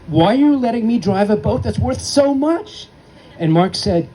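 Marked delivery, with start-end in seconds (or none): 0.1-2.9 put-on high, upset boy's voice; panicked kid's cry. Frightened boy to his sailing director, high upset cry. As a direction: cry it out in alarm at the wheel. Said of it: "screamed at Mark and said".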